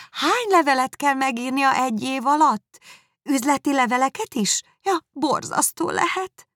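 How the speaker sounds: magasabb, kacér úrihölgy-hang; enyhén magasabb, negédes női szerep; Miss Bingley hangja. Acted. Miss Bingley voiced by narrator. (kissé magasabb hangon, negédesen)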